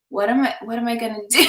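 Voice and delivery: mock helpless, breaking into laughter; feeling victim. Newlywed wife told of his trip, mock victim. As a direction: ask it as a hammed-up poor-me, quickly. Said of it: "more victim".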